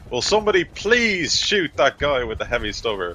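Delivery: high, loud mock scream; screaming plea. Game master as Vox begging squadmates to shoot, screaming. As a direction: yell a desperate order over gunfire. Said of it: "like, screaming".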